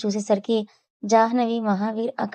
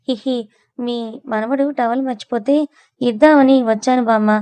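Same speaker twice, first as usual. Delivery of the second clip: sheepish giggle; 2 semitones higher, 5 dB louder than usual. Acted. Sweety caught by grandma, nervously giggling an excuse. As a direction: giggle your way out of trouble.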